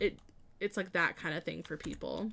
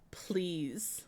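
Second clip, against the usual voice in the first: whispered plea; 2 semitones lower, 7 dB quieter than usual. Real, not acted. Pleading with chat.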